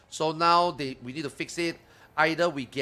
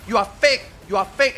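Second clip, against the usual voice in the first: a hint of a mocking fan, higher and louder; mocking Russian viewers; 6 semitones higher, 6 dB louder than usual. Streamer retells fans calling him fake, light mock taunt. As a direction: lightly parody the accusers. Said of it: "viewers that came to my channel and talked shit like that".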